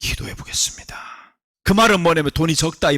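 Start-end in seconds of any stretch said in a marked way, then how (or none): 0.0-1.3 breathy sly whisper. Pretend. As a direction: whisper it like a secret greedy yes. Whispered greedy consent.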